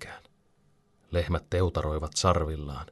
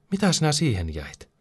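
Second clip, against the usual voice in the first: much higher, impatient demand; snapped question; 9 semitones higher than usual. A narrator's reading. Pete scolds Alvar for staying behind, snapping. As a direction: snap it at a dawdling friend. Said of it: "Pete tuiskahtaa".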